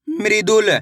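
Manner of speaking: मृदुल said as one word, "mri-dul"; blended word demonstration. Shown as a demonstration. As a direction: join the syllables into मृदुल. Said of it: "तो मिलके बन जाएगा".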